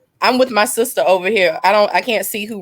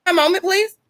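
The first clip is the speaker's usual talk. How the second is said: indignant plea; 10 semitones higher, faster than usual. Real, not acted. Demanding her right to grieve.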